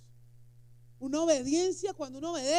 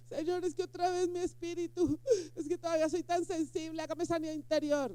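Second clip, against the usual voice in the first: mock whiny believer; 5 semitones higher than usual. Imita al creyente sensible.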